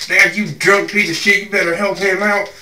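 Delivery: put-on telling off your drunk dad across the shop; mild mock shout at dad; retold yell. Yelling at dad to help.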